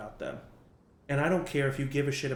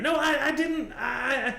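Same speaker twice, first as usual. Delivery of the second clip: much higher, louder panicked stammer; flustered denial; 13 semitones higher, 6 dB louder, slower than usual. Acted. Penny denies telling Liam anything, panicked shout. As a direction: throw up your hands and protest. Penny defends herself, hands up.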